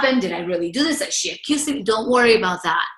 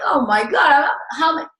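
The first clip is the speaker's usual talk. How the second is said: exasperated outburst; 6 semitones higher, 6 dB louder than usual. Retold or imitated. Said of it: "for me, I was like".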